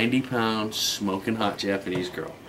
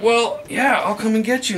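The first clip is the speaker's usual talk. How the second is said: much higher mimicked voice; high, raised-volume caller impression; imitated caller; 12 semitones higher, 5 dB louder than usual. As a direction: push the pitch way up to play her. Voicing the caller agreeing eagerly.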